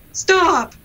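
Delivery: put-on high barked old man's stop; Professor Poe voice. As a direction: bark it like a stern old professor. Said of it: "Professor Poe voice".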